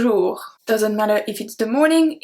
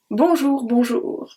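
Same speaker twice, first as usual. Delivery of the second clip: cheeky, cheery sing-song bonjour; happy dad greeting. Shown as a demonstration. Teacher demos the cheeky dad bonjour, cheery. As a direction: bounce it like a jolly dad saying hello. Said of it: "the happy one, or maybe I would say it's more of the dad one".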